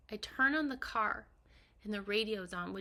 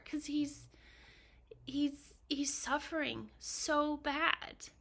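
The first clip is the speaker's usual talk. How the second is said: broken whisper; 4 semitones higher, slower than usual. Real, not acted. Heartbroken over her frail husband.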